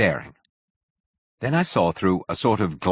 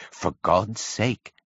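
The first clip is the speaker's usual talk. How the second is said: pleading in terror; much slower than usual. A narrator's reading. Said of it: "in a terror lest the Martians should hear us".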